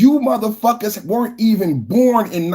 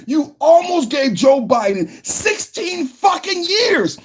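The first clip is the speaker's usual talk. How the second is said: higher, shouting insults at the audience; angry shout; 7 semitones higher than usual. Real, not acted. Berating Democrat voters over Biden, angry shout. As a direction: yell it like you can't believe them. Ranting vlogger berates his viewers.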